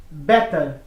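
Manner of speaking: American accent, better as "bedder". Shown as a demonstration. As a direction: say better with a flapped D-like T. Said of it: "No inglês americano".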